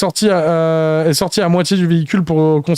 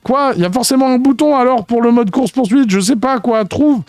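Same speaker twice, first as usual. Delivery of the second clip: urgent rush; 6 semitones higher than usual. Acted. Rapper urges driver to find button.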